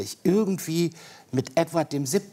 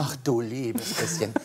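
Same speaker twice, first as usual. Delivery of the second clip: mock dismay; 2 semitones lower, 4 dB quieter than usual. Real, not acted. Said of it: "Dialekten hier zu improvisieren".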